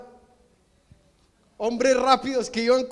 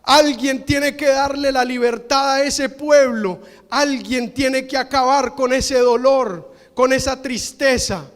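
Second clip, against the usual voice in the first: holy anger. Retold or imitated. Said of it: "tiene una reacción de ira".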